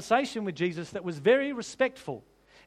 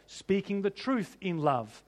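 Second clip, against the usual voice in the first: slow emphatic phrase; 3 dB quieter, slower than usual. Real, not acted. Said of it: "these two things go together".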